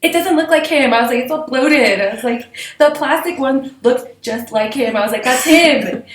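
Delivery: put-on high, loud childish protest; upset child self. A three-year-old protesting to her mom about the stuffed toy, high whine.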